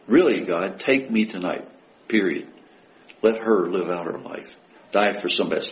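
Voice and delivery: low, subdued plea to God; earnest prayer. Acted. Offering God one's own life for hers, earnest and low. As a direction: pray it simply, meaning every word. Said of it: "to say that and mean it".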